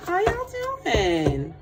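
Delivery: high, slow, drawn-out hello; singsong greeting. Real, not acted. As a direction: call out to new viewers.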